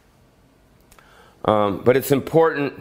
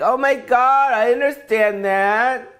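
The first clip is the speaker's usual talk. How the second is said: camp delighted gasp; 11 semitones higher, slower than usual. Retold or imitated. Gay driver approving his navigator, high and camp. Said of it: "gay guy will be like".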